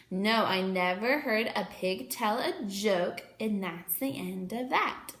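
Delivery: sing-song rhyme; poem recitation. Acted.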